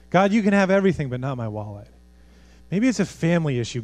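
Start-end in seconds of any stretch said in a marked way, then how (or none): 0.1-1.9 mock bargaining. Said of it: "Maybe it's a financial issue".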